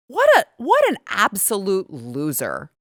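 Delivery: slow, drawn-out contempt; disgusted reaction, stretched out; scornful disbelief. Real, not acted. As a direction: dismiss him with scorn.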